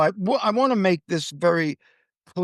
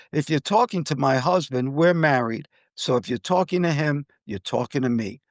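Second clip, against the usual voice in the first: very calm; 3 semitones lower than usual. Retold or imitated. Wife answers the rude flight attendant, very calmly. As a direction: lower and evenly calm, no heat. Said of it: "My wife said very calmly".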